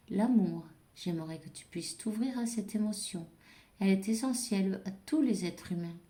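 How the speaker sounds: reader voicing a guardian angel's message, clear read-aloud delivery; oracle message read-aloud. Guardian angel's message to the viewer, read-aloud style. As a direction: deliver the angel's message in measured, projected phrases.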